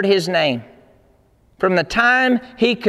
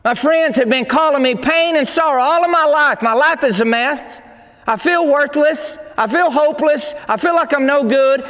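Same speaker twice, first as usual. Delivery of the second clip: raised, pleading cry to God; Jabez's pleading prayer; 3 semitones higher than usual. Retold or imitated. Preacher voicing Jabez begging God to bless him, raised and pleading. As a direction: beg God for help with rising urgency. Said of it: "he said, God".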